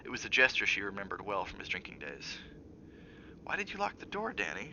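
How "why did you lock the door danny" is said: gentle. Acted. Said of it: "she asked gently".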